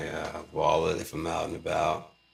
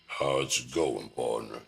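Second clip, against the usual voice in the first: folksy dad voice; 5 semitones lower than usual. Retold or imitated. Parent greeting young kids in his odd voice. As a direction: lightly voice a country dad. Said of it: "talk to your kids that way".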